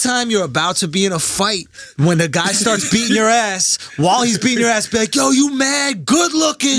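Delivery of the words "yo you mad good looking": mock flattery. Mock flattery mid-fight.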